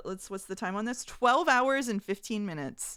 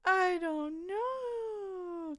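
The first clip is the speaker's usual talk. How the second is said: laugh crying; 10 semitones higher, 3 dB quieter, much slower than usual. Real, not acted.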